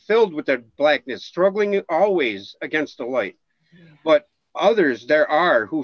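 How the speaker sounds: solemn, measured reading of ancient lore; epic fantasy narrator. Acted. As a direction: intone it like an old prophecy. Reads ancient text aloud.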